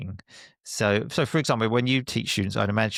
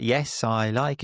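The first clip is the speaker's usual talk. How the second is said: prompting drill answer; 3 semitones higher, slower than usual. Shown as a demonstration. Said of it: "And I say, like".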